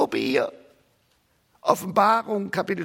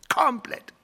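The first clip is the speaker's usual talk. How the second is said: whispered Komplett, breathy and unvoiced; hushed echo of Komplett; 5 semitones higher than usual. Shown as a demonstration. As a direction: breathe the word Komplett as a secret aside. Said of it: "komplett weltfremd".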